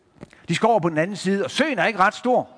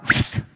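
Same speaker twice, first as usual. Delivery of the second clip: shushing sound. Acted. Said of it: "havde sagt".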